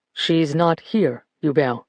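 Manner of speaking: put-on gently telling the forgetful old man; gentle. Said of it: "Lucas said gently".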